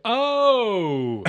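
high loud English "Oh!" of surprise. Shown as a demonstration. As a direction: gasp out "Oh!" as an English speaker would. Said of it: "like we would say".

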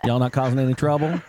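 lightly voiced Southern park ranger; a hint of a drawling ranger checking up on folks. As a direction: imitate a country ranger on patrol. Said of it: "white boy ranger".

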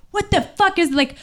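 the stranger walking away and yelling back, mock outrage; retold yell. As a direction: call it back over your shoulder, half-hearted outrage. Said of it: "he would yell back".

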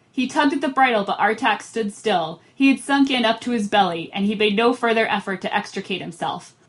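measured read-aloud with lightly acted dialogue; story narration. A narrator's reading. Podcast host reads book passage to friends, story narration.

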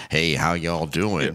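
slow, low Texan drawl; Texas accent. Retold or imitated. Daughter of the British-accented woman greeting folks, imitated Texas drawl. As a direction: lightly imitate a laid-back Texas accent. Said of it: "the daughter was like".

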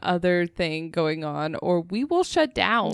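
slow, measured refusal; lightly voiced firm inner warning; body's stern warning. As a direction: lay down the limit slowly. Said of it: "My body's just like".

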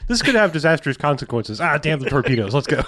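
mock-dramatic warning, then charge ahead; Doc Brown-style alarm. Film character warning of disastrous consequences, mock-dramatic. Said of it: "people Doc Browning in this".

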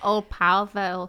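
slow, cartoonish Russian accent; bad Russian accent. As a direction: put on a corny Russian accent. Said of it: "everyone has really bad Russian accents".

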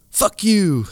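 high, loud defiant yell; a fleeing kid yelling back at dad. A narrator's reading. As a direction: shout it back. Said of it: "the kid yelled back".

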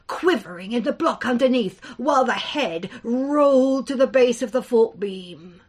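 tense, dramatic storytelling; story narration. A narrator's reading. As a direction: build dread as the giant rises. Narrator reads the tale.

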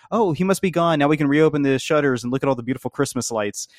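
high-pitched lobster alien voice; lightly voiced Zoidberg impression. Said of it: "and Doctor Zoidberg says".

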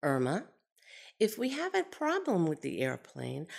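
even, steady, unhurried calm; a pilot stating facts with a straight face. Retold or imitated. Pilot Bill explaining the bail-out plan to Irma, dead calm. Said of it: "with the straightest face and the most calm tone".

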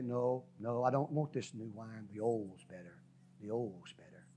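stubborn mutter that trails off to nothing; fading murmur. Retold or imitated. Sinner in back pew refusing.

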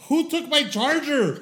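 half-laughing, half-outraged demand; laughing mock outrage. Retelling losing the charger again.

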